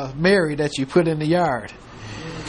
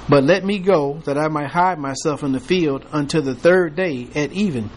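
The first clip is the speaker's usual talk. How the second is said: measured King James reading voice; scripture reading. Acted. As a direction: read the verses steadily to the class. Reads scripture aloud to class.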